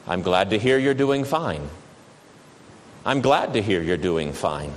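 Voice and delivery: low, joyless monotone; depressing monotone. Retold or imitated. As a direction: recite it out of obligation. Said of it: "in a depressing, monotone voice".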